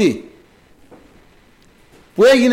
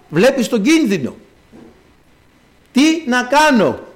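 pleading Moses; 3 semitones higher than usual. Acted. Moses crying out to the Lord, pleading. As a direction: beg the Lord for help, voice lifted.

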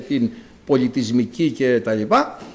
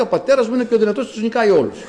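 put-on childish boast; 5 semitones higher, much faster than usual. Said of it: "Όπως κάνανε τα παιδάκια".

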